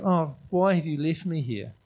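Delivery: mock self-pity, complaining to God; self-pitying whine. Shown as a demonstration. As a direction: moan it like you feel sorry for yourself. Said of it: "have a little pity party and go".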